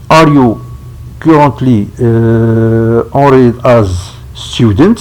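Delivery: anglais lu avec un fort accent francophone; English read haltingly with a French-speaker's accent; accent français en anglais. Real, not acted. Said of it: "Je m'excuse de mon accent en anglais". (anglais hésitant à l'accent francophone)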